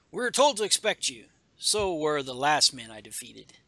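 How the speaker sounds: a swordsman sneering before the duel; taunting warrior. Acted. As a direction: gloat over the fallen. Villain taunts hero in comic.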